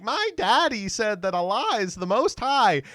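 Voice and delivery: a hint of a kid insisting on what daddy said; mock little-kid boast; seven-year-old. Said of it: "seven-year-olds that are like".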